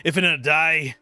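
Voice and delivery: strained, theatrical Scottish brogue; Scottish accent. Acted. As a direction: declaim it as an anguished Scottish warrior. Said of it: "Scottish accent".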